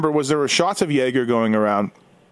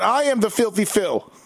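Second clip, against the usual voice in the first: put-on German accent; 4 semitones higher than usual. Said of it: "In his accent".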